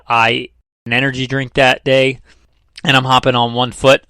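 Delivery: mildly sarcastic run of what-ifs. Acted. Host mimicking viewers' objections to his numbers, mildly sarcastic. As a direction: voice a nitpicker's objections with light sarcasm. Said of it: "I'm being sarcastic".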